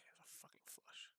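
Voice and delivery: soft unvoiced whisper. Real, not acted. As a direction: whisper it under your breath. Muttering while playing.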